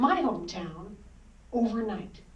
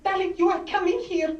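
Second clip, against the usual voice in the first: put-on proud father in a thick Greek accent, louder and higher; tender, grand Greek-accented father announcing destiny; Greek father's accent; 4 semitones higher, 4 dB louder than usual. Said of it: "spoke with a thicker accent than my father".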